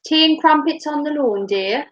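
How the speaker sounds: a lightly plummy posh English lady; hint of a posh lady pouring tea; posh tea party. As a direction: play the refined hostess offering tea. Posh English tea role-play.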